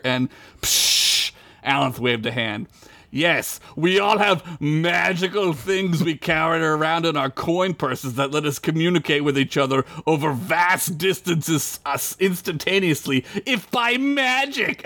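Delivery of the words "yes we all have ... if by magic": sarcastic laughing elf. Acted. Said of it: "Alan said, laughing".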